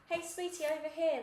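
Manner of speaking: high, loud call across the road; frantic calling. A narrator's reading. Director calling Naomi over, frantic and high. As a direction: call her over eagerly. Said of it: "waved at her frantically".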